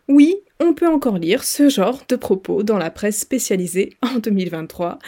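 talking through a nervous laugh; uneasy laugh under the words. Real, not acted. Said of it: "c'est un rire nerveux que vous entendez".

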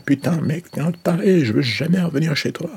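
high, loud, panicked yelling; freaked-out shout. Pretend. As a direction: yell it like you're running away scared. Imagined listener fleeing in horror.

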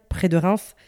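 rot au milieu des mots; talking while burping. Real, not acted. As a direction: parler en rotant. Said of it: "Pardon, j'ai roté comme d'hab". (parler en rotant)

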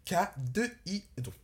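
letter by letter, slowly; spelling it out. Shown as a demonstration. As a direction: spell each letter out clearly. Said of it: "Tu peux épeler ça".

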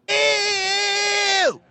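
long high-pitched "ew"; drawn-out squeal of disgust. Real, not acted. Reacting to a picture of the movie, disgusted high squeal.

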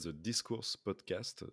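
podcast title said with an English accent. Real, not acted. Host reading an English podcast name in English accent. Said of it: "désolé pour mon accent anglais".

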